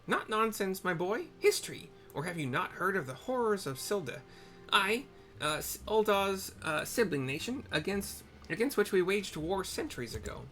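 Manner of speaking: put-on high old woman's voice, ominous; old hag storyteller. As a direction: tell the horror like a bitter crone. Old woman tells of Silda.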